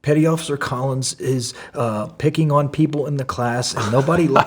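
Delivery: high, loud mock whine; mocking whiny tattletale. Swim buddy tattling to the proctor, mock whining. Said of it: "you could hear the bitch in his voice".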